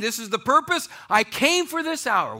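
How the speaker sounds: high, loud proclamation; emphatic declaration. Acted. Jesus declaring why he came, emphatic. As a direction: declare it with rising force.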